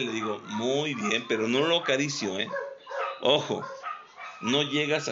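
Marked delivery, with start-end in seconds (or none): 0.5-1.3 gentle praise. Shown as a demonstration. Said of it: "con voz muy suave y amable".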